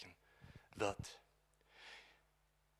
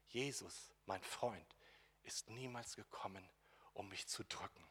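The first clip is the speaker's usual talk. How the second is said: normal talking voice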